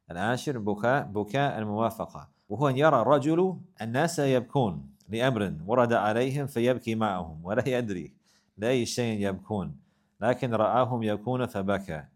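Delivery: brisk recitation of a classical text; reading Arabic text. Acted. Teacher reading the source text to students, brisk recitation. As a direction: read the Arabic quotation quickly.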